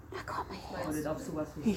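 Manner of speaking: soft coaxing whisper. Real, not acted. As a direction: coax her in a whisper. Whispering to horse.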